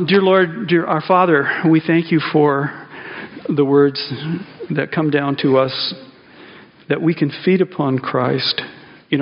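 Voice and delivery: measured, reverent prayer voice. Real, not acted. Pastor leading the congregation in prayer, reverent.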